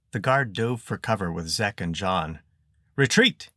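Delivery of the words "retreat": high, loud shouted order; shouting. A narrator's reading. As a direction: yell the order to fall back. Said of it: "he shouted".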